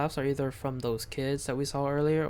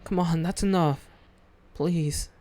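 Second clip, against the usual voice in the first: pleading; 3 semitones higher than usual. Acted. Pleading with silent friends.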